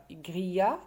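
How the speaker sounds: "Grillage" broken as grilla... ge; split into syllables. Shown as a demonstration. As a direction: pause before the final "ge" of "Grillage", voiced as a full syllable. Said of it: "on a trouvé deux syllabes".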